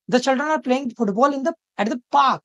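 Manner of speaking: "park" set apart and hit firmly at the end; stress on park. Shown as a demonstration. Teacher shows students the stressed word, stress on "park". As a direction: read it out, landing hard on "park". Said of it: "पार्क पे यहाँ पे stress दिया गया है".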